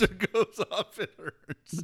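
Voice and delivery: high, laughing through a fading whiny hurts; laughing mock whine. Cohost joins the Stossel mock while laughing. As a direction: giggle through the crybaby line.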